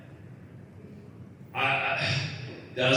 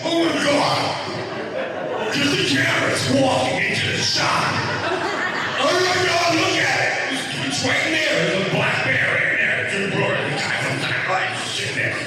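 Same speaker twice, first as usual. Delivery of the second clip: starstruck fans; 13 semitones higher than usual. Retold or imitated. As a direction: shriek like fans spotting a celebrity.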